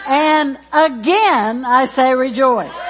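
loud, high preached scripture; preacher shouting scripture; preaching at full force. Acted. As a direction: proclaim it with rising fire.

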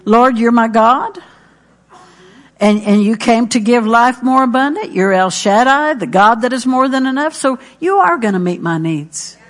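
personal prayer. Shown as a demonstration. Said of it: "you make it personal".

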